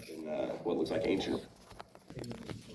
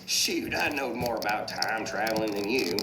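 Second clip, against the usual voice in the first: lightly voiced cartoon tow truck, slightly raised; a hint of a boastful yokel truck; Mater; 4 semitones higher than usual. Tow truck boasts to his friend, lightly voiced character. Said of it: "Mater says".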